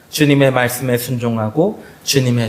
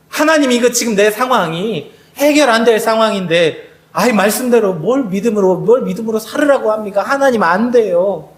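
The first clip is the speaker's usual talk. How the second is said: pitched-up, pleading protest of a doubter; doubting believer's complaint; 4 semitones higher than usual. Acted. Believer protesting to God that it is impossible, pleading. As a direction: whine it to God like you can't believe it.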